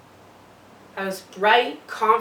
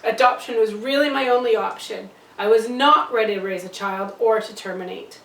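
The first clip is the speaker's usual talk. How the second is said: louder, emphatic justification; firm defence; 6 dB louder than usual. Acted. Birth mother defends choosing adoption, firm and louder. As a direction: state it forcefully.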